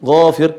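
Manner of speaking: GHAFIR said with a rounded, drawn-out first vowel; thick long gha. Shown as a demonstration. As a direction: give ghafir a heavy "ghaa". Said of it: "huruf gha". (ghafir, gha dibaca tebal)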